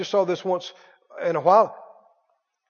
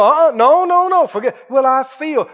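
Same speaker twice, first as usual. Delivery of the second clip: scolding yourself; 4 semitones higher, 6 dB louder than usual. Pretend. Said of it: "get yourself by the ear and go".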